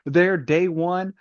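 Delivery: Mustang rant. Retold or imitated. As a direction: scold them like a betrayed leader. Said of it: "that's my Mustang rant".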